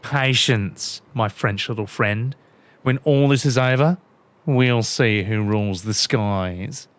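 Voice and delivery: a villain sure he'll win; smug villain. Acted. Villain gloating at Red Bill, lightly voiced.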